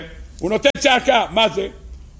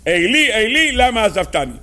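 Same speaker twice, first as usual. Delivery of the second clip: mild quoted cry; 3 semitones higher than usual. Retold or imitated. Esther crying out to God on the third day, mildly raised cry. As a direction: quote a plea with a touch of outcry. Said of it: "צעקה בקול גדול".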